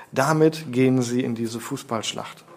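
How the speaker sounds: usual speaking voice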